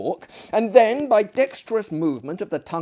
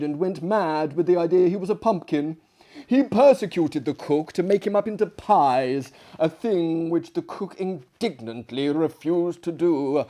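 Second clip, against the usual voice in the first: eager guest voice; 3 semitones higher, 5 dB louder than usual. Acted. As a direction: pile on the wonder. Another guest tells of pumpkin.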